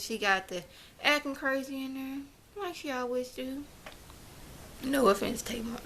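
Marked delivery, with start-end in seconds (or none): 4.8-5.8 whispered aside. Real, not acted. Aside apology to Tamar.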